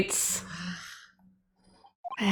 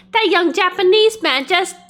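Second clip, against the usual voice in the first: put-on frat girl; 9 semitones higher than usual. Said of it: "I'm turning into a frat girl".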